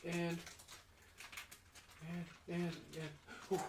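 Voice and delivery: slightly high hopeful offering; eager offer. Acted. Cook offering leftover eggs to guest, lightly voiced eager offer.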